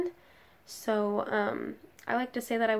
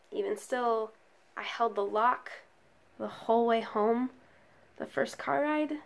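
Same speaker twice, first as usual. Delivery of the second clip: measured poetry recital with long pauses; spoken-word poem. Acted. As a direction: recite it solemnly, pausing between phrases. Recites own written poem.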